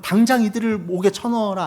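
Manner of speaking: lightly voiced commanding king; king's command. King ordering the three men jailed, mock command.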